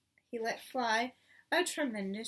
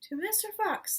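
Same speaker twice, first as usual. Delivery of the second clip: high, raised toast; group toast shout; 8 semitones higher than usual. A narrator's reading. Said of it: "they all shouted".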